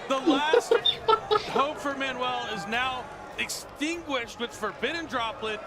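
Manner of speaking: dramatic call. Real, not acted. Caster calls game-ending play.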